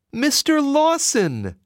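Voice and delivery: mother fearing her son is taken back; cried frantically. Acted. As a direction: call out in panic. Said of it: "she cried frantically".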